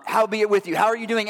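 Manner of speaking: mock Spurgeon-style greeting; old-fashioned preacher greeting. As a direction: ham up the quaint phrase like an old preacher. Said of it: "Sounds like Spurgeon or something".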